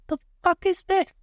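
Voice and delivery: high, outraged question; shocked squeal. Retold or imitated. Teen hit by first migraine, high shocked outrage. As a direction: squeal in disbelief. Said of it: "I was like".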